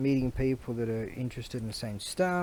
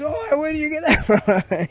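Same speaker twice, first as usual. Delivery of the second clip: high, loud mock outburst; retold loud exclamation; 10 dB louder than usual. Other bloke heckling about the sword, loud mock outburst. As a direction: imitate a bloke calling out, pitched right up.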